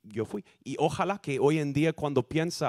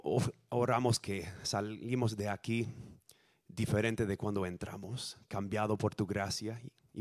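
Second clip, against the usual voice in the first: spoken prayer. Real, not acted. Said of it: "les invito a que oren conmigo".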